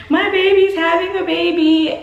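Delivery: high-pitched overcome wail, imitating mom; emotional mom impression. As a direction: mimic a mother overwhelmed by the news. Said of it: "an extremely emotional".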